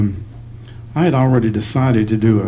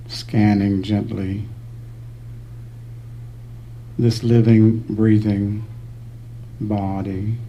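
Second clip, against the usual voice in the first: unhurried meditation guidance with long pauses; calm, spacious meditation voice; guided meditation. Real, not acted. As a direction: guide them gently through the body, leaving space between phrases.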